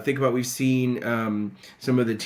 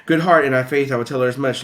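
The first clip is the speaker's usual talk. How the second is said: earnest; 4 dB louder, faster than usual. Retold or imitated. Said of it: "I really do mean business".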